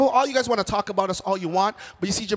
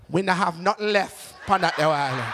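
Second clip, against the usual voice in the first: lightly voiced Jamaican server; Jamaican counter lady; 2 semitones lower than usual. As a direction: deliver it in Jamaican Patois, unbothered. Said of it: "she turns to me and says".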